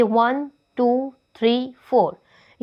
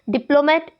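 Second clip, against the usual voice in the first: "डिप्लोमेट" with DIP strongest; first-syllable stress; 2 semitones higher, faster than usual. Shown as a demonstration. Teacher showing shifting accent, "डिप्लोमेट" stressed on DIP. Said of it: "first level से second पे".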